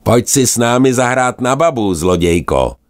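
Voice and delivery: high, teasing gull voice; a rowdy gull daring her to play tag; cheeky gull call. Acted. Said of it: "křikl na ní nejrozpustilejší z racků". (vysoký rozpustilý racčí pokřik)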